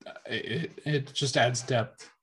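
choking on something mid-sentence; words catching in the throat. Real, not acted. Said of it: "Sorry, I'm choking there".

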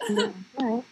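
mock military nod through laughter; laughing through it. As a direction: giggle the words out under your breath. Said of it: "we're like".

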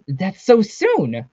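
high, loud, drawn-out dismay; exclaiming. A narrator's reading. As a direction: stretch it out in startled protest. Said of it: "exclaimed Serena".

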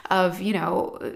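usual speaking voice

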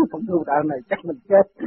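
words broken by real laughter; amused, laughing as you tell it. Real, not acted. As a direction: chuckle through the line. Laughs while quoting their own worry.

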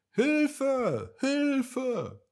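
high, loud cries for help; a small crab screaming to be rescued. A narrator's reading. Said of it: "schrie eine kleine Krabbe". (hohe, laute Hilfeschreie einer kleinen Krabbe)

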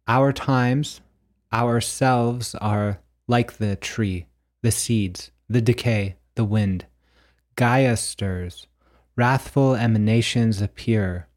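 measured, declaimed poem with deliberate pauses; prose poem reading. Acted. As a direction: read it like a solemn prophecy, phrase by phrase. Reads own prose poem aloud.

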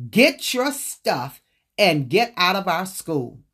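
cold angry command; furious order. Retold or imitated. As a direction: order her out, each word deliberate. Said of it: "Mister Purify was furious".

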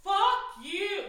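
loud high mock outrage; playful shout. Real, not acted. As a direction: yell it at your friend laughing. Playful outburst at friend.

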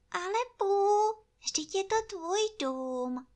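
squeaky and small; tiny piglet. Acted. Ferkel, hohe Stimme.

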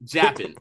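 "Japan" said as "JAP-un"; imitated pronunciation. Shown as a demonstration. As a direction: stress the first syllable of "Japan", weak second vowel. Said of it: "as they pronounced it".

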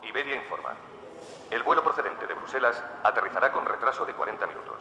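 airport announcement. Acted. Airport announcements before travel segment.

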